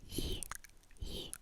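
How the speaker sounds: "yi" as Mandarin yī, a level, held ee vowel, whispered; Chinese yi. Shown as a demonstration. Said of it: "we have".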